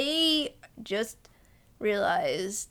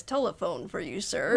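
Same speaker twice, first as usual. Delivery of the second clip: lightly put-on American accent, lower pitch; hint of American accent, low and formal; 5 semitones lower than usual. American guy calls a diner to the phone, lightly put-on American accent. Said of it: "this American accent guy says".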